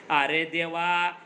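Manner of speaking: drawn-out lament, lightly acted; understated wail to God; crying out. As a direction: stretch the words into a mild mock wail. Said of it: "ओरडायला लागते".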